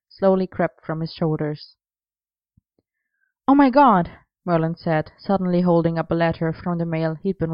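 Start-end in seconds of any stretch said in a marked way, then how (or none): 3.5-4.1 high excited exclaim; sudden delighted outburst; excited gasp. A narrator's reading. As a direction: burst out in delight. Merlin excited over a postcard.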